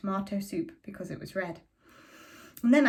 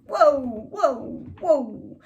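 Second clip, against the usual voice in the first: higher, louder calls to stop; shouting whoa; 6 semitones higher, 8 dB louder, much slower than usual. A narrator's reading. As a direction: shout them to a halt. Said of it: "And Mister Shears shouted".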